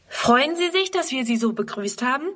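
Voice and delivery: a hint of a hopeful child asking; lightly voiced young girl. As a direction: play the excited little girl. Girl Friedrun asks eagerly.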